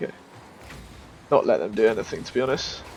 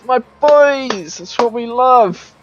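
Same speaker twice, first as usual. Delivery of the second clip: higher, slow cheering; happy cheering; 5 semitones higher, slower than usual. Real, not acted. Gamer praising his teammates after the goal, higher and slow. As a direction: savour the goal.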